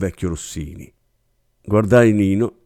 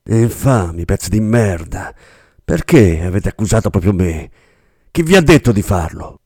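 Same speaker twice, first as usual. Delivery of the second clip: furious accusing outburst, raised; enraged; 5 dB louder than usual. Acted. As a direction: spit the insults out in rage. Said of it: "Bressan diventò livido dalla rabbia". (sfogo furioso e rabbioso)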